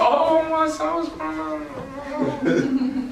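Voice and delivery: squeaky, high, stretched-out words lost in laughter; laughing falsetto. Retold or imitated. Preacher breaking up while voicing the friend, laughing high. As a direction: crack up mid-line in a high voice. Laughing through his retelling.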